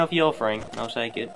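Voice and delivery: ordinary talk, nothing marked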